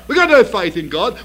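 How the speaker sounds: ordinary talk, nothing marked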